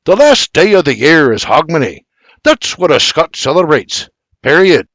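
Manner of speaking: firm Scottish lecture; lecturing. Acted. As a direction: lecture him, full stop at the end. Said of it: "continues his lecture".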